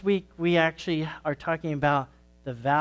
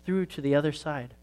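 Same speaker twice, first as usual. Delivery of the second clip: put-on gentle storytelling for kids at church; story read to children. A narrator's reading. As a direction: tell it like a children's sermon story. Reads a children's story aloud.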